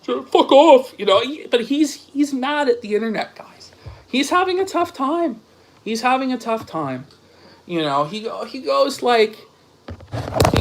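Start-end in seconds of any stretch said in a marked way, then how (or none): 4.1-5.4 a pitched-up, mocking whisper; breathy fake sympathy, whispered. Shown as a demonstration. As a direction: whisper it like sarcastic pity. Mock pity for the rival.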